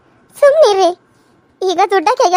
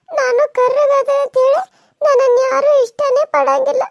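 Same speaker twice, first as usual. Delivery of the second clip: crying; 3 semitones higher than usual. Acted. Girl weeps over being unloved.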